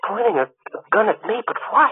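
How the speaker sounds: startled and scared at the sight of the gun; frightened. Acted. Joe sees gun pointed at him.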